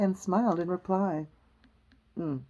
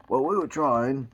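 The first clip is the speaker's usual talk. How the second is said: lower, humble servant voice; humble gardener; 4 semitones lower, 3 dB louder than usual. Acted. Two excusing himself to the Queen, humble. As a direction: explain in a lowered, deferential voice. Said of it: "said two in a very humble tone".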